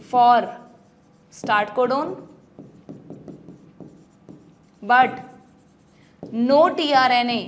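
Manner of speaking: word by word, with long pauses; slow dictation. Shown as a demonstration. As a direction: dictate each word slowly for notes. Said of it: "लिख लो ये बात अपनी NCERT में".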